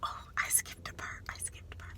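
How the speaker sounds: real hushed self-correction, fading away; flustered aside. Real, not acted. Storyteller realising she skipped a part of her dream, flustered aside. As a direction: catch your slip, almost whispered to yourself.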